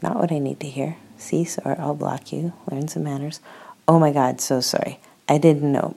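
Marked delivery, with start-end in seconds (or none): 3.9-5.0 flustered apology. Acted. 5.3-5.9 blurting it out loudly; loud, falling, stress on didnt; loud flustered apology. Acted.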